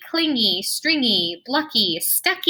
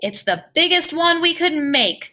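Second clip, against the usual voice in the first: put-on kids proudly yelling across the room; hammed-up triumphant kid shout; 7 semitones higher than usual. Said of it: "they shout".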